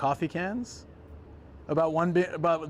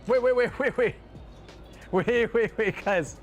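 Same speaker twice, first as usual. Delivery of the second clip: urgent; 5 semitones higher than usual. Real, not acted. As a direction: stop everything in shock. Stunned by price.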